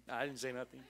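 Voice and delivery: low, soft, amused aside; keeping quiet. Acted. Mary keeping out of Martha's trouble, quiet and amused. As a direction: stay out of it under your breath. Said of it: "kept her mouth quiet".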